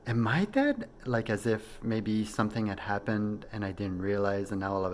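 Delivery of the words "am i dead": much higher, louder startled ask; the sudden fear he might be dead; alarmed question. Retold or imitated. Fears he himself died.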